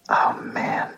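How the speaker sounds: breathy whisper under the breath. Real, not acted. Podcaster whispering so next door can't hear. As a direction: keep it to a hushed whisper.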